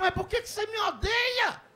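high-pitched, exaggerated pleading question; hammed-up hurt disbelief; mock anguished protest. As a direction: climb into a wounded comic wail. Acted protest at the insult.

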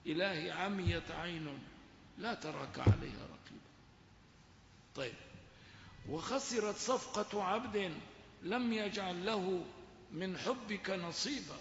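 devotional verse read with reverence; reciting Ibn Ata Allah. Retold or imitated. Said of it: "حقا ما يقوله ابن عطاء الله".

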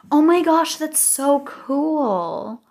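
high, loud then very slow drawn-out delight; excited squeal. Real, not acted. Thrilled at gem rewards.

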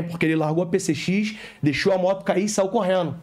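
ordinary delivery

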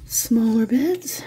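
straining while talking; pushed out with effort; effort grunt. Real, not acted. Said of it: "Sorry for the grunting".

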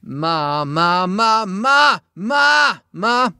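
loud, high yelled ma scale; pushed, shouted singing. Shown as a demonstration. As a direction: yell through the break. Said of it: "fucking yell through it".

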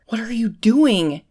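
mildly baffled, drawn-out question; puzzled question. A narrator's reading. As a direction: ask it slowly, taken aback. Wounded man questions her undressing.

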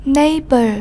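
"Neighbor" with the stress on "Neigh"; first-syllable stress. Shown as a demonstration. Teacher models "Neighbor" for the class, stressing its first syllable. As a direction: lean on the opening syllable of "Neighbor". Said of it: "Nhấn âm tiết số một".

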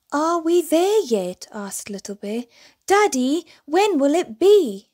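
high, eager pleading questions; impatient cub. A narrator's reading. Little bear asking his daddy again if they have arrived, high and eager.

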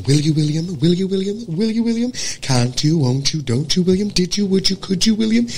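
will you William rising; rising pleas. Shown as a demonstration. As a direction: plead William up the scale. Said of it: "General American".

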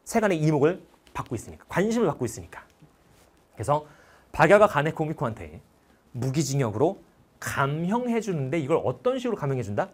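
ordinary talk

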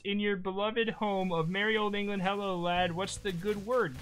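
put-on light British accent; a hint of a British accent. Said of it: "In a British accent".

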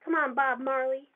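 loud, high exasperated shout at the screen; frustrated yell. Real, not acted. Gamer shouting at an opponent, loud and exasperated. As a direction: yell it out at an enemy player. Player yelling at game opponent.

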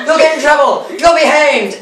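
high, hammed-up warning; mock warning. Warning the rowers about hanging, mock alarm.

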